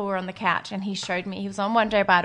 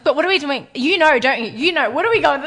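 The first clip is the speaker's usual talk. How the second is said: higher, louder, laughing pressing questions; playful interrogation; 6 semitones higher, 7 dB louder than usual. Retold or imitated. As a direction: grill her with a half-laugh. Interrogating Shay, Spanish inquisition.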